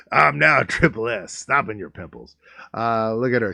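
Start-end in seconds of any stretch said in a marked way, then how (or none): 0.1-2.4 mock wrestler promo. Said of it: "It's like Triple H".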